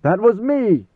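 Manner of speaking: loud, high commanding shout; Paul's voice of command bursting out. A narrator's reading. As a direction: thunder it as a dead emperor's command. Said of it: "Paul Muad'Dib's voice of command".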